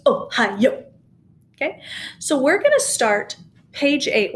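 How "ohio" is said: Ohio with each syllable accented; accented notes. Shown as a demonstration. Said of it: "That means accent those".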